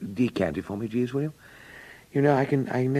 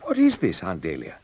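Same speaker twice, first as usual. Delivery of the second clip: startled protest; 6 semitones lower, 4 dB louder than usual. Acted. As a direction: jump in shocked protest. Aunt barges in.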